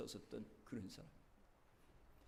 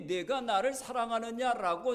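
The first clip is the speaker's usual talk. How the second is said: emphatic question; 7 semitones higher, 8 dB louder than usual. Retold or imitated. Jesus's question at sermon climax.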